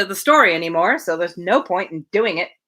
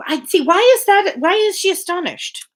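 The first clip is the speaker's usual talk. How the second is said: puzzled; 10 semitones higher, 3 dB louder than usual. Real, not acted. Breaks off reading, puzzled.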